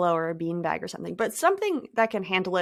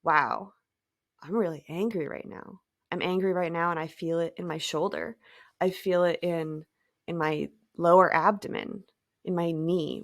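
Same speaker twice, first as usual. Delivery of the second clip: calm observer; 3 semitones lower than usual. Pretend. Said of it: "Fall into that state of witnessing".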